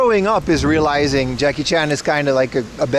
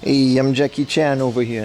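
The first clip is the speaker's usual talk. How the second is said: Jackie Chan impression. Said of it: "I'm gonna do another Jackie Chan impression".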